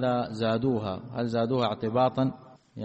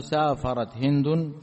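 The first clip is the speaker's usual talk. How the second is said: slow demo; slower than usual. Shown as a demonstration. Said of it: "بدل من أن نقول".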